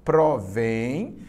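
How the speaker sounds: "provém" split into pro and vém; syllable by syllable. Shown as a demonstration. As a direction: say "provém" in two long beats, lifting on the last. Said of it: "separando as sílabas".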